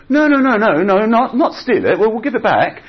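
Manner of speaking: high and loud, laughing through the denial; chuckling "no, no, no" to the disciples; laughing reassurance. Retold or imitated. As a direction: brush off the silly idea, amused. Jesus laughs off the stealing idea.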